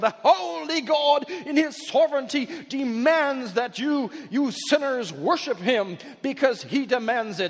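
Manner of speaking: fake English preacher voice. Mimicking how some preachers sound when they talk about God: bad English accent. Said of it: "get this sort of bad English accent and go".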